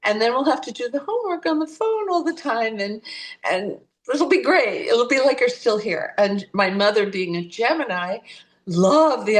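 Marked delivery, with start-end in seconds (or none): 0.0-6.1 eager aunt. Retold or imitated. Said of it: "and her sister said".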